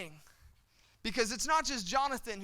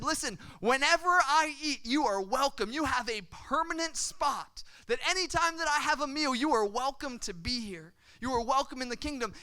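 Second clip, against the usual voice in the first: raised, insistent royal promise; emphatic welcome; 4 semitones higher, 4 dB louder than usual. Acted. King welcoming his friend's son to the table, emphatic. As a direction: press the welcome home, higher pitched.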